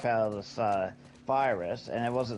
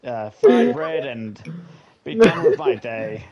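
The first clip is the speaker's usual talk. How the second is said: loud declaration; 9 dB louder than usual. Acted. Playing a nation's wants comedically.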